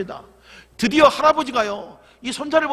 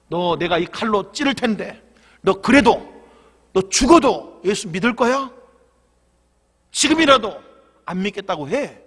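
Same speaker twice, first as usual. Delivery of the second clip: menacing grandfather; 5 dB louder than usual. Acted. Grandfather holds knife to neck.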